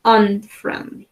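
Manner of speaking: "Unfriendly" slowly, the U sounding near an A; slow classroom repeat, U opened to an A. Shown as a demonstration. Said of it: "Esta U suena como más o menos una A".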